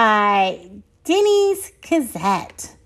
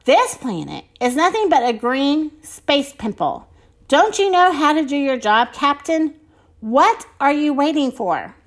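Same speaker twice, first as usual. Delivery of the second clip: a higher-pitched commander scolding her captain, lightly acted; bossy mother general; 4 semitones higher than usual. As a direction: give a storybook telling-off to your crew.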